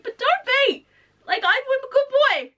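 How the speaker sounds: high, pleading puppy voice; mock whiny good boy; pleading monster. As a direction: beg like a wounded puppy. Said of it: "he's just like".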